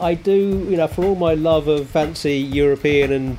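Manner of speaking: hoarse, croaky throat. Real, not acted. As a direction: speak with a frog in the throat. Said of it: "the croaky voice of Sarah".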